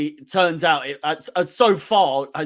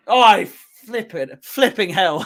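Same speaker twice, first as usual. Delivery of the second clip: self-censored oath; 4 dB louder than usual. Real, not acted. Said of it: "How shall I say that?".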